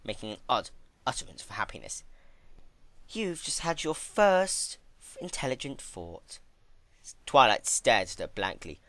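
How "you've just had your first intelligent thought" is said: delighted praise. Acted. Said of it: "clapped her hooves together in excitement".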